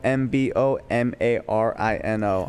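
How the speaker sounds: spelling out slowly. Shown as a demonstration. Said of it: "Middle name Combo".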